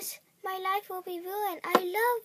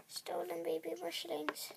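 softer, unvoiced whisper; 3 semitones lower, 9 dB quieter than usual. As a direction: murmur it under your breath. Hushed talk at a house.

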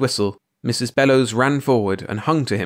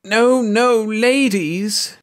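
high, loud, alarmed protest; panicked cry; 12 semitones higher, 4 dB louder, much slower than usual. A narrator's reading. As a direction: cry out to hold them back. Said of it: "cried Mister Thurkell, leaping about".

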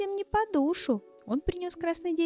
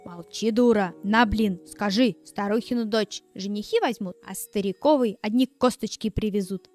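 scolding; 4 semitones lower, 3 dB louder than usual. Acted. Stepmother scolds dog.

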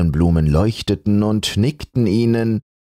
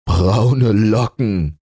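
mild laugh; 5 semitones higher, much slower than usual. Acted. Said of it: "lachte der Pelz".

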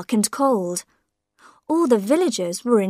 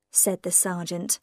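ordinary delivery, nothing marked

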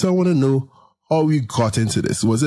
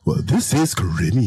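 mock radio-announcer intro; a hint of announcer voice. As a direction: lightly imitate a radio host opening a show. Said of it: "like a radio announcer".

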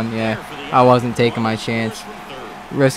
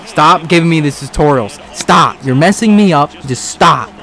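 frustrated; 2 semitones higher, 4 dB louder than usual. Real, not acted. Annoyed by game tutorials.

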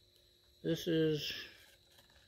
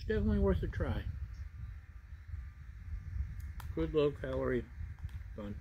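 speaking between spoonfuls; talking while chewing; faster than usual. Real, not acted. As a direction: mouth partly full of food. Seen 1: spoon goes to mouth repeatedly during the words, jaw chewing.

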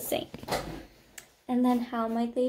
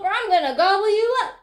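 quick, high troll threat; menacing troll; 8 semitones higher, 4 dB louder, much faster than usual. A narrator's reading. Troll threatening the second goat, quick and raised. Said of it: "said the troll".

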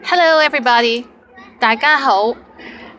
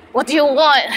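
irritated, higher-pitched challenge; mock angry; 4 semitones higher than usual. Shown as a demonstration. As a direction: play at being annoyed, half in fun. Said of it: "if you say it angrily".

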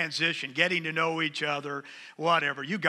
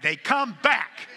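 They come back slowed and louder with a laugh; mock dread; 4 semitones higher, 5 dB louder, slower than usual. Shown as a demonstration. Preacher joking to the congregation about grown kids, with mock dread. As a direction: groan it out in mock horror. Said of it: "But the bad thing is they come back".

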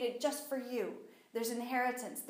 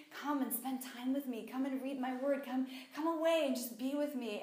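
lightly coaxing invitation; gentle wooing. Acted. God inviting the speaker to spend time, gently wooing. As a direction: woo gently, with a touch of tenderness. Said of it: "he'd be wooing me".

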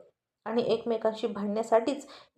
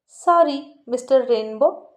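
slow, louder sneering sorry with a rise; mocking sorry, twisted mouth; 5 dB louder, slower than usual. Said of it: "असं तोंड वाकडं करत म्हणाली".

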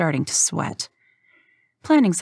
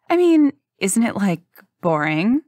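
higher, louder innocent question; mock-naive disbelief; 4 semitones higher, 4 dB louder than usual. Rook playing dumb to Hank, higher disbelief. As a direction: act surprised at the idea.

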